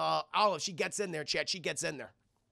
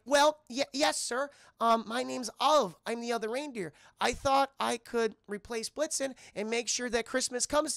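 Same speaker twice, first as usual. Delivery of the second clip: higher, hesitant polite little voice; timid Olive; 5 semitones higher than usual. Retold or imitated. Olive introducing herself to the gatekeeping elf, timid. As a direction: plead politely as a hopeful small character.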